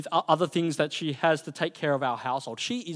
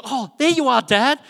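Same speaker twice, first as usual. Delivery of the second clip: put-on little girl Asher; 9 semitones higher, 8 dB louder than usual.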